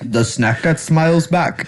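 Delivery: slow mock Indian accent. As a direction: say it like a tech support agent. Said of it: "You did it in an Indian accent".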